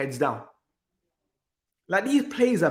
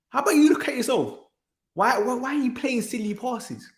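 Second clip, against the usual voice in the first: higher, sharp rebuke at the player; imagined rebuke; 6 semitones higher than usual. Retold or imitated. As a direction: snap at him to look at himself. Telling off Dalot in imagination.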